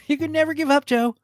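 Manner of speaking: mimicking the movie line. Echoing the movie line just heard.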